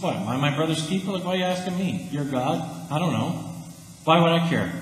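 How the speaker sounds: mock snotty shrug of a reply; lightly voiced snotty Cain. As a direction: toss it off like a sulky teen. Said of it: "kinda snotty".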